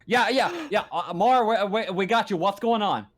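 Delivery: busy controller picking up; station operator on comms. Acted. Game master answers as station operator.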